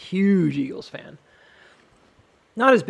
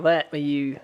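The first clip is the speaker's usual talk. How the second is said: Cockney attempt sliding into Australian; attempted Cockney accent. Shown as a demonstration. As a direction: try Cockney, landing almost Australian. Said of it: "that sounds almost Australian".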